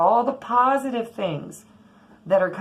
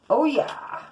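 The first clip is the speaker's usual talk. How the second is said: surprised; 7 semitones higher than usual. Real, not acted. Reacting to the Gemini card.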